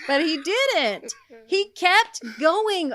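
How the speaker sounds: slow, laughing disbelief; drawn out through laughter. Real, not acted. Laughing at donkey story.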